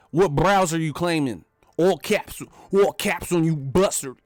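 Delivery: punchy pretend thug taunt; hammed-up confrontation; mock gangster challenge. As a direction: play an internet tough guy calling someone out. Parody of gang challenge.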